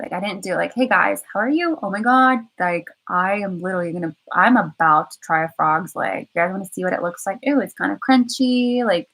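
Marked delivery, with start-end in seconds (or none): 0.7-8.8 a light mock vlogger greeting, pitched up; mock vlogger voice tasting a frog's leg; vlogger impression. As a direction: play a bubbly travel vlogger, lightly. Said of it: "in a vloggers kind of standpoint".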